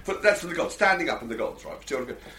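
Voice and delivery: a lightly put-on, badly done street-tout accent; mock a ticket tout's accent, barely shifting your own voice; terrible tout accent. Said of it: "really terrible accent here for a tout".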